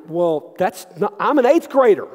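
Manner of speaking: mock teenage outrage, pushing up to a yell; indignant protest.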